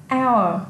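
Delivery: "Hour" with the H left silent. Shown as a demonstration. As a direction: start "Hour" straight on the vowel, no H sound. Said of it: "chữ hơ bị câm".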